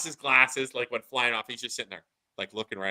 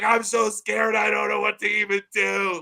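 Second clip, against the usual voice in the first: lightly voiced frightened child, higher; a hint of a frightened child's voice; scared kid; 6 semitones higher than usual. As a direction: play the little boy, scared and lost. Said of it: "he's like".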